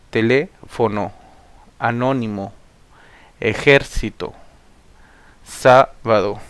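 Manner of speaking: "sábado, ártico, décimo" one by one, punched third syllable from the end; stress on antepenultimate syllable. Shown as a demonstration. Teacher reciting esdrújulas like "teléfono", stressing the antepenultimate syllable. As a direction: hit the accented syllable hard, as in "aéreo", "ártico". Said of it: "llevan el acento en la antepenúltima".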